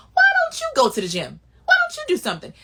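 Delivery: loud, rising scold; yelling go do something; scolding shout. Acted. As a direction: shout it at the hater. Scolding jealous haters.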